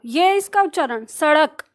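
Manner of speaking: सड़क with a quick flapped ड़. Shown as a demonstration. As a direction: demonstrate the flap in सड़क. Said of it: "ड़ जो आप ले रहे हो". (सड़क में ड़ की झटकेदार ध्वनि)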